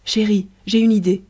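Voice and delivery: eager cry of a sudden plan; sudden exclamation. Acted. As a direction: blurt out the idea with delight. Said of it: "Riquette s'était écriée tout à coup".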